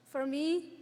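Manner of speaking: usual speaking voice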